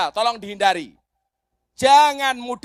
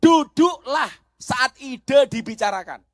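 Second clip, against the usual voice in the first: preached line. Shown as a demonstration. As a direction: repeat it slowly for the crowd. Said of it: "Saya ulangi". (diulang pelan dan lantang)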